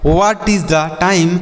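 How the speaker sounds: each English word said slowly for the class; slow model sentence. Shown as a demonstration. Teacher to children, modelling an English sentence slowly. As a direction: spell it out slowly for learners. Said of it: "क्या समय हो रहा है".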